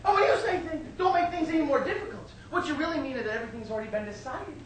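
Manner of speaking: high, loud martyred rant; hammed-up mother shouting her complaints; aggrieved mother. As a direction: pile up grievances, voice climbing into a shriek. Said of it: "she said".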